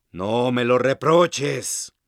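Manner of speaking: susurrado y lento, sin reproche; serene. Acted. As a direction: dilo en calma, casi susurrando. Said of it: "contesta serenamente la hoz". (la hoz responde serena, en susurro)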